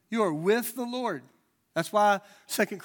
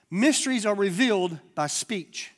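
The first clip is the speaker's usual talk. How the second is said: slow emphasis; 2 semitones higher, 5 dB louder than usual. Shown as a demonstration. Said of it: "Let me say it again".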